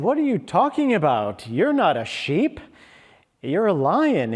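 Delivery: lightly acted disbelief, setting the other straight; incredulous big lion. Big lion telling the cub he's no sheep, mild incredulity.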